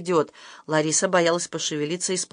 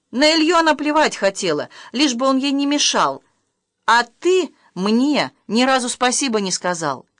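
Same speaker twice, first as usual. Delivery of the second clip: higher, louder aggrieved complaint; bitter reproach; 6 semitones higher, 4 dB louder than usual. Acted. Wife reproaching husband over his son, aggrieved and louder. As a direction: let the hurt spill over into accusation.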